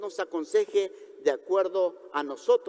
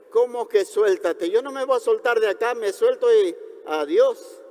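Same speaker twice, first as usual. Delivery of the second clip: acted, incredulous refusal; mock indignant protest; 2 semitones higher, 3 dB louder than usual. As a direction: protest like a climber told to let go. Climber refuses to let go.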